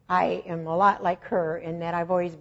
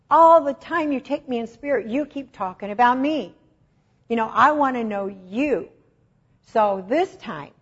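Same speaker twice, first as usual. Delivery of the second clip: earnest plea; 4 semitones higher, 5 dB louder than usual. Retold or imitated. Pleading prayer to God.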